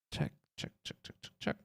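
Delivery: whispered mic check; breathy voiceless check check. Pretend. Mic-check muttering while ticking items.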